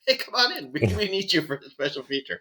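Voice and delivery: eager film recruiter. Acted. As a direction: wave a passerby in, lightly acted. Imagined filmmakers recruiting a passerby.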